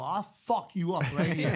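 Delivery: a hammed-up street threat; mock threat. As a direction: play at menacing an old friend. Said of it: "I threaten 'em".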